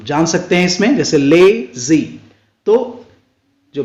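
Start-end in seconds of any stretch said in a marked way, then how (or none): 1.2-2.2 लेजी slowly split in two, ले then जी; two-beat लेजी with a long first syllable. Shown as a demonstration. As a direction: stretch ले, then a separate जी. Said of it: "इसमें दो syllables".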